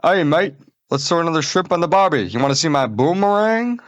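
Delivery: high, fast mock Aussie voice; over-the-top Australian impression; Australian accent. Shown as a demonstration. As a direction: ham up an Aussie bloke. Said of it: "here's my, uh, Australian".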